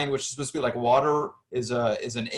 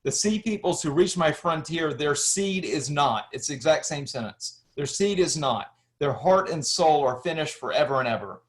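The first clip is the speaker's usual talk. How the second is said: reading an ancient inscription. Shown as a demonstration. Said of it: "I just wanted to read this line".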